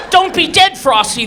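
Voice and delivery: put-on high, loud kids begging; pleading kids. Children begging the snowman, high and loud. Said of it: "they're saying".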